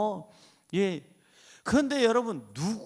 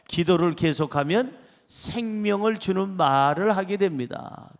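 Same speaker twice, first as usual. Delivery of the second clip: congregation repeats; 3 dB louder than usual. Shown as a demonstration. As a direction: read back together with the pastor. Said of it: "시작". (회중이 따라 읽는 문장)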